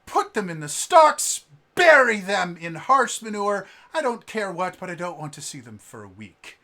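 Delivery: loud, high, commanding yell; angry orders. Acted. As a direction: sentence the brawlers. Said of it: "she goes".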